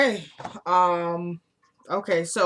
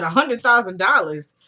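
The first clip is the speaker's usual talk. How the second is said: louder, incredulous echo; mock disbelief; 5 dB louder than usual. Rusty questioning Randall's offer, mock disbelief. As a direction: repeat the sum as an astonished question.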